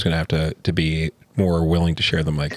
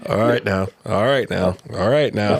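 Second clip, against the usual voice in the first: imitated older man's greeting; 2 semitones higher than usual. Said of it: "like, an older black guy".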